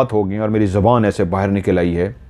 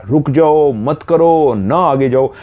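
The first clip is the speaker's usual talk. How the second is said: pleading shout; 5 semitones higher, slower than usual. Retold or imitated. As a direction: beg her to stop, raising the voice. Dwarves begging her to stop. (बौने ऊँची आवाज़ में गिड़गिड़ाते हुए रोकते हैं)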